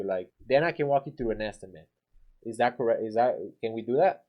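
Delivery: a hint of talking down; judging tone. Shown as a demonstration. Contractor talking down to homeowner, mild judging tone. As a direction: sound faintly condescending. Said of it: "sounds like you're judging them".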